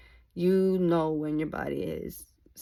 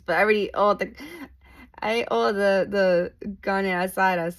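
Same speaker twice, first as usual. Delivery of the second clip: loud, excited food talk; 2 semitones higher, 6 dB louder than usual. Real, not acted. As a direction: gush about how good it was.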